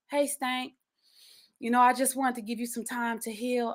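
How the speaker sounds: lightly sexy, smooth pickup voice; a touch of seductive charm. Retold or imitated. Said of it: "I'm trying to say it in a sexy voice".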